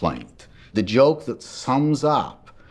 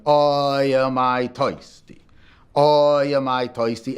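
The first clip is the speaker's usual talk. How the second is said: put-on old man's lament; 3 semitones higher, slower than usual. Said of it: "still sitting there going".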